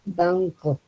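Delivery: "banco" with the tongue tip behind the teeth for the N; dental N in banco. Shown as a demonstration. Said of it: "Si la pongo mi lengua, digamos, detrás de los dientes". ("banco" con la N dental, poco natural)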